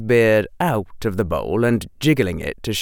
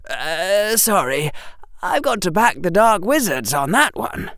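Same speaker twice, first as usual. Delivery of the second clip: put-on higher, brisk boyish Harry with sarcasm; young Harry voice; 9 semitones higher than usual. Harry answering the headmaster, higher and sarcastic. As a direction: voice Harry as a cheeky boy.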